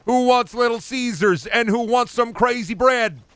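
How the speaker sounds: shrieking cheery manager ignoring the injury; high mock manager voice. Streamer as boss after forklift accident, very high mock cheer. Sung-style boss pizza jingle.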